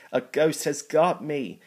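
high, loud panicked cry. A narrator's reading. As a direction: cry out in terror. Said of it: "she cried".

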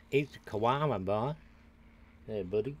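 mock Australian twang; bad Australian accent. Gamer joking about a creature's name, amateur Australian accent. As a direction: have a half-hearted go at an Australian accent. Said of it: "not very good with an Australian accent".

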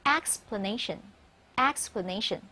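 explanation twice slowly, stress on -na-, weak a in ex-pla; clear slow demo of explanation. Shown as a demonstration. Teacher contrasts the noun with its verb, slow. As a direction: model the noun for students. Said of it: "名词读成explanation".

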